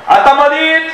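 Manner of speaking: high-pitched mock annoyance; angry. Husband objects to brother-in-law, mock angry. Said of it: "हे रागानं त्याच्याकडे पाहते".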